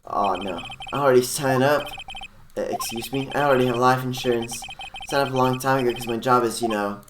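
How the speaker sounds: breezy surfer-dude celebrity. Acted. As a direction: play the easygoing celebrity dude. Engard voiced as surfer dude.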